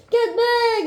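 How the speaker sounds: sharp angry order, pitched high; armed lord ordering her friend back, angrily. A narrator's reading. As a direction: snap it out as a warning. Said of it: "he said angrily".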